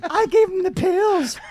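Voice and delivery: lightly voiced celebrity impression; a hint of the comedian, played for laughs; Bill Cosby. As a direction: keep up a loose comedian impression. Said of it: "doing the Bill Cosby voice".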